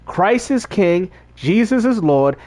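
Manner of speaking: slow, authoritative declaration of faith; measured and certain, every word given weight; profound confidence. Shown as a demonstration. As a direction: declare it deliberately, with full conviction. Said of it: "say it with profound confidence".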